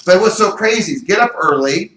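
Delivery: ordinary talk, nothing marked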